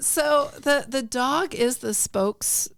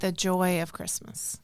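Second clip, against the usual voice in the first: whispering; 4 semitones lower, 5 dB quieter than usual. Real, not acted. Whispered completion of phrase.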